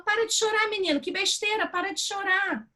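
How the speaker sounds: high, mock-stern telling off; hammed-up parent snapping at a crying boy; scolding parent. Parent telling crying boy to stop, mock-stern and high.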